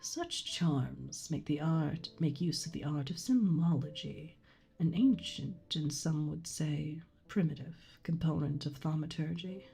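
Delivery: item lore reading. Acted. Reads item lore text.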